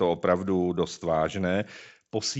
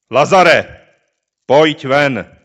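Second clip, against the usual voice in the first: loud commanding call into the tomb; mighty call; 4 semitones higher, 12 dB louder, much slower than usual. Acted. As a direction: call Lazarus out with full power. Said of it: "zvolal mocným hlasem". (mocné zvolání)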